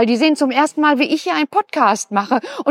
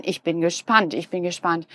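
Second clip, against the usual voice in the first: low and much softer, breathless with suspense; hushed suspense; 8 semitones lower, 6 dB quieter than usual. Real, not acted. Flüstert gespannt zu Kindern. (leise, gespannte Stimme vor den Kindern)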